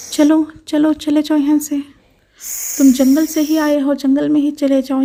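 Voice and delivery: put-on a girl chasing the snake off with loud shouts; loud shouting. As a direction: yell at the snake to get lost. Puja shouts the snake away.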